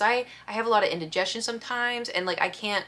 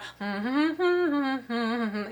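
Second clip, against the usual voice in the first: mock humming noise; 5 semitones higher than usual. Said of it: "And so I was going".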